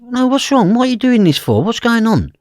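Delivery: high, loud, alarmed demands; retold frantic outburst; frantic questioning. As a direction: fire off panicked questions at full pitch. Retells frantic questioning at bedside.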